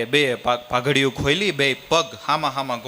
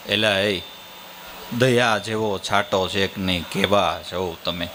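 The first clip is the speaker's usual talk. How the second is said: scolding traveller; 6 semitones lower than usual. Acted. Traveller scolds father and son.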